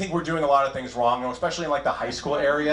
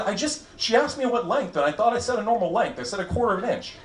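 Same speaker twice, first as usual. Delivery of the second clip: flustered mom; 6 semitones higher than usual. Retold or imitated. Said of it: "She said".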